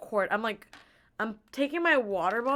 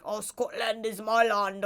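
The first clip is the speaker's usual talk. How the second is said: imitating proud dad; slower than usual. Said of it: "he's like".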